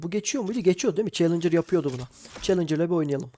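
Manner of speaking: talking while eating chips; crunching chips. Real, not acted. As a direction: mouth full of chips. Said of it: "Cips yiyorum bu arada".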